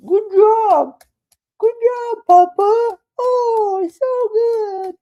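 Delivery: put-on squeaky high kid praising papa, near tears; high falsetto child gushing over banana bread; child's voice. Dad voicing his kid's gushing praise in high falsetto.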